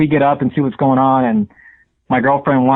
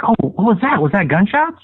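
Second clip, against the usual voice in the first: higher, mildly alarmed questioning; startled girlfriend; 5 semitones higher than usual. Retold or imitated. Caller quotes girlfriend hearing shots, mock startled questioning. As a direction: imitate someone snapping up startled. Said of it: "she snaps up and she's like".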